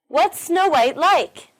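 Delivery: What's, Snow White and like each punched, slow; stress on What's, Snow White and like. Shown as a demonstration. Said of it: "They are what's, Snow White, and like".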